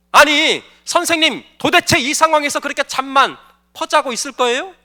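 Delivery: mildly exasperated wake-up protest; outcry. Acted. Disciples shake Jesus awake in a storm, exasperated. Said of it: "아우성이었어요".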